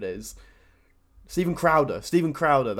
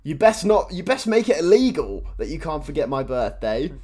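mock nagging wife, higher and louder; hammed-up demanding wife warning her husband; insecure wife; 5 semitones higher, 8 dB louder than usual. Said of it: "like, a really insecure wife".

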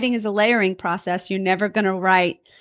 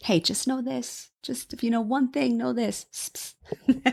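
hushed, confiding aside, much softer; mock whisper; 3 semitones higher, 8 dB quieter than usual. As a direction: pretend to whisper secret advice in someone's ear. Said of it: "What do you whisper in her ear and say".

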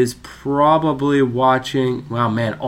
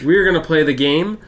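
game show host lift, rising at the end; announcer voice; 3 dB louder, faster than usual. Acted. Podcast host opening the game in a showy announcer voice. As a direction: play the game like a showman. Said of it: "change up the accent".

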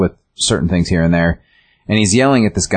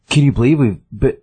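a higher, eager voice for the odd guy; crazy guy; 6 semitones higher than usual. Retold or imitated. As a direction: lightly voice the strange, clingy man. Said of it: "the kind of the crazy guy".

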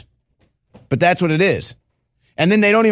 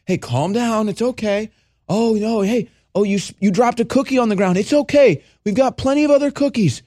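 mock soothing; 4 semitones higher than usual. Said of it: "like a kindergartner".

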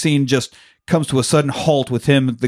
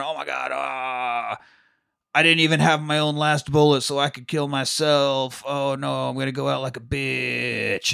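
softer, faint dying groan; mock dying whimper; 5 dB quieter than usual. Dying gangster moaning to himself, softly. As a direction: moan it out weakly like a shot man. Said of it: "And he's laying there".

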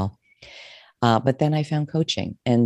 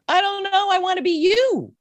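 much higher, a sudden blurt; blurted answer; 3 dB louder than usual. Retold or imitated. Answering her therapist, blurting it out much higher. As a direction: let it pop out before thinking. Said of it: "that just blurted out".

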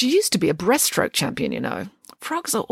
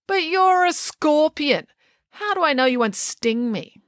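distrustful, raised voice; wary challenge; 6 semitones higher than usual. A narrator's reading. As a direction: challenge them with open suspicion. Wary frog challenges the scorpion.

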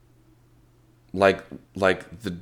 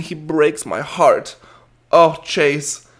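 put-on high, drawn-out lovelorn little girl; cartoon swoon; 6 semitones higher, 3 dB louder, slower than usual. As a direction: sigh it out melodramatically as a smitten child. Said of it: "did a cartoon feint".

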